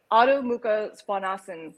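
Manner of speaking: Svanasana ending on N, as "svanasan"; silent final A. Shown as a demonstration. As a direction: say Svanasana without its last A. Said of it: "the A is actually silent".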